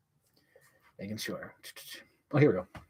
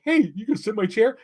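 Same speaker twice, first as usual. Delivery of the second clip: mock Paul Rudd; 9 semitones higher, 3 dB louder than usual. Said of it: "Paul Rudd's like".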